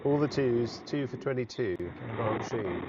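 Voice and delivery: lightly voiced old commentator, falling ends; retry the Benaud voice, barely shifted; second go at Richie Benaud. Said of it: "That sounded more like Doc Cotton".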